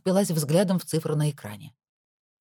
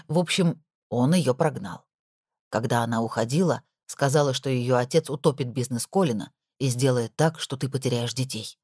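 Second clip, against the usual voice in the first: a hint of a lower, confiding older woman; gossipy housekeeper; 5 semitones lower than usual. Nora confiding to Lana on the phone, lightly lower voice. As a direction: lean in and tell the secret.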